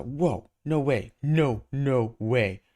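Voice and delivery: slow, drawn-out awe; stunned at the other Spider-Man; slow amazement. Acted. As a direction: savour the disbelief.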